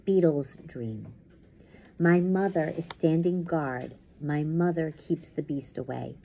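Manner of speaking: measured, dramatic first-person reading; intense story narration. A narrator's reading. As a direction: tell the nightmare as it closes in. Reads story aloud.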